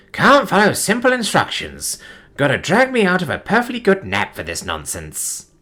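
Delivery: irritated high grumble; grumbling. Acted. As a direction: grumble about being woken. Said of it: "the voice grumbled".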